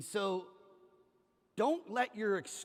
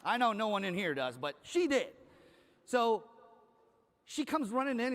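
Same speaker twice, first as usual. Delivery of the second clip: ordinary talk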